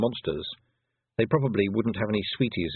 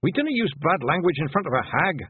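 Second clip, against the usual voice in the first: thundering rebuke; 8 semitones higher than usual. A narrator's reading. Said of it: "Rob Anybody thundered".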